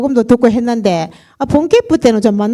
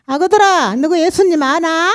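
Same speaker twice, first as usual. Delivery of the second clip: the pastor's Jeolla lilt, higher and brighter; Jeolla dialect; 6 semitones higher than usual. Retold or imitated. Church testimony, pastor calls children in Jeolla dialect. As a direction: call 아그들아 out in thick Jeolla dialect. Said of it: "전라도 말을 구성지게".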